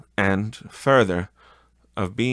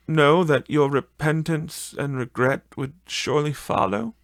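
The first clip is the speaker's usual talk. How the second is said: put-on higher, a gently grieving young woman; sorrowful young woman; 5 semitones higher than usual. A fiancée releasing Scrooge, higher and grieving.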